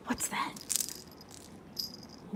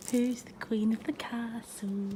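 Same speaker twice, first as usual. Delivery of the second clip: slow, hushed whisper to the cat; 6 dB quieter, slower than usual. Real, not acted. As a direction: whisper it slowly so the cat stays calm. Cooing to the cat on its tree.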